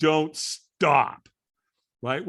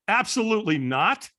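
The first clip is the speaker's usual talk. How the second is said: acted-out flat-out refusal, raised pitch; firm refusal; 5 semitones higher, 4 dB louder than usual. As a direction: shut the idea down emphatically. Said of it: "Said it with that kind of a tone".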